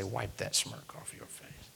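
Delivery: slow, breathy whispered aside. Retold or imitated. Wishing he could tell the smirking officer, whispered. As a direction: hiss the thought under your breath, slowly. What he wanted to say.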